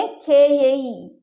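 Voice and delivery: very slow, spelling out खे ये ई; slow teacher demo; slowed for learners. Shown as a demonstration. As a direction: stretch खे ये ई syllable by syllable. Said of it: "हम इसलिए ऐसे बोले कि आप लोग को समझ में आए".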